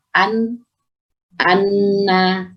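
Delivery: "an, anna" with the n held and doubled; teacher's slow demo of "an, anna"; doubled-letter demo. Shown as a demonstration. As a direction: sound out "an", then lean on the n in "anna". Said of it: "Atau ditasydid".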